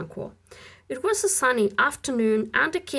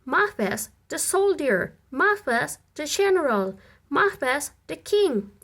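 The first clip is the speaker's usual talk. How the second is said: ringing, raised calls rising on each title; witches' proclamation; 6 semitones higher than usual. Acted. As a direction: hail him like prophetic witches. Witches hail Macbeth in chorus.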